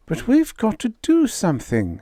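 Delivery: high, pressing plea; urgent Vera. Acted. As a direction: push for action. Vera urging action.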